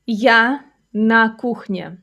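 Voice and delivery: slow, word-by-word teaching delivery; slow model sentence. Shown as a demonstration. Teacher modelling a kitchen sentence for learners, slowly. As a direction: space out each word for learners.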